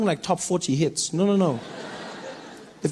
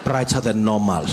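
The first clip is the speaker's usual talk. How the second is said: mock apologetic official; 9 semitones lower than usual. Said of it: "Eskom would say".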